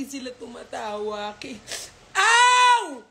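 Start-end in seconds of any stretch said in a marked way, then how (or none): 2.1-3.0 sharp high yelp; yelp of pain. Real, not acted. Owner bitten by her puppy, sharp high yelp. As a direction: cry out as the teeth sink in.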